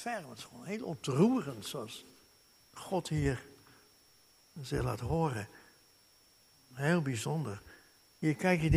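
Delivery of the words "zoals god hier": normal talking voice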